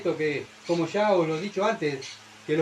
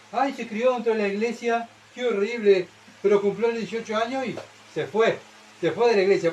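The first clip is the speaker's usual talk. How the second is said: a touch higher, mock-shocked church lady; mock scandalized gossip; 4 semitones higher than usual. Preacher mimicking church gossips, mildly scandalized. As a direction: lightly play the tutting gossip.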